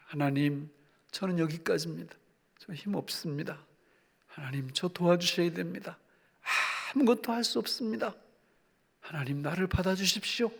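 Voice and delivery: hushed, humble plea to God; helpless surrender prayer. Acted. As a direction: pray quietly as one with no strength left. Acting out an exhausted, helpless prayer.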